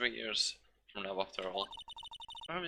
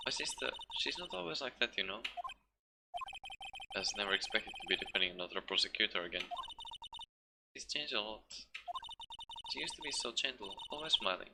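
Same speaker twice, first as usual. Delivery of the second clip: put-on a lightly raised, soft young woman's voice; softer girl character voice; 5 dB quieter than usual. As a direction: confide gently about her sister. Girl talks about her sister.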